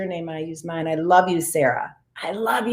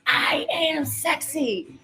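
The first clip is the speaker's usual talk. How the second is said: slow, high and soft I am sexy; playful affirmation; 7 semitones higher, 8 dB quieter, much slower than usual. Shown as a demonstration. Leading the group to say it twice, playful and slow. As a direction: savour it playfully. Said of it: "Say it out loud with me".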